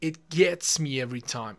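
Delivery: very slow, clear model sentence; the natural idiom said slowly; slow natural phrase. Shown as a demonstration. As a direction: spell out the idiom slowly for learners. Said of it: "خب نه".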